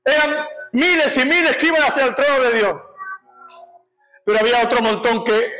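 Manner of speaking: high, proclaimed account of a vision; impassioned preaching. Real, not acted. Preacher describing his vision to the congregation, impassioned preaching. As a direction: declare the vision in long fervent phrases.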